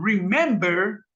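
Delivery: remember stressed in the middle, re-MEM-ber; middle-syllable stress. Shown as a demonstration. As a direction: lean slowly on the MEM of remember. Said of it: "sino que está en remember".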